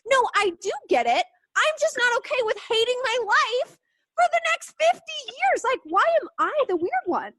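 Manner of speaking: high, loud exasperated protest; indignant retort. Retold or imitated. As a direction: push back like you can't believe them. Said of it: "And I'm like".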